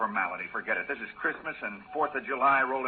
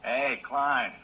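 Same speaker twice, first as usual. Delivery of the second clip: loud call across the distance; 6 dB louder, much slower than usual. Acted. Man calling his partner off the trail, loud call. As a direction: shout his name to find him.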